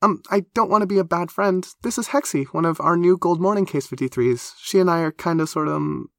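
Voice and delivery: high, excitable, awkward introduction; high-voiced and hesitant at the end; flustered Black Forest. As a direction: stumble eagerly through introducing a friend.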